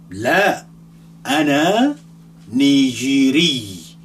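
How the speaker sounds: emphatic demo answer. Shown as a demonstration. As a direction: answer firmly to model the reply. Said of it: "If you ask me".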